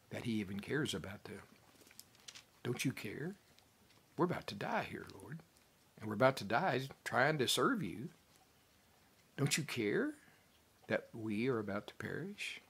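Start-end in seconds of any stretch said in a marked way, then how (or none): 2.6-12.6 frightened disciples whining at their master; accusing cry of doubt; desperate complaint. Retold or imitated. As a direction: plead as if the boat is sinking. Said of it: "kind of with the wrong, uh, attitude".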